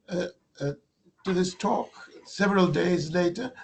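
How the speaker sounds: raspy, worn-out speaking voice; hoarse voice. Real, not acted. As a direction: speak through a hoarse throat. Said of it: "excuse me for my hoarse voice".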